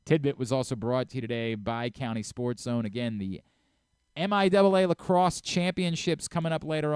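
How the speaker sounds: upbeat host-read ad for sports coverage; radio host ad read; sponsor read. Acted. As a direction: plug the sponsor cleanly and brightly.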